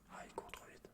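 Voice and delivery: ordinary talk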